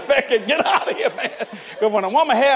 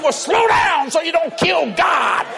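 mock trooper; 8 semitones higher, 5 dB louder, slower than usual. Trooper quoted, loud.

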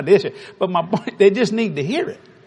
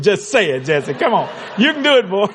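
pushy insistence. Retold or imitated. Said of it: "with persecution".

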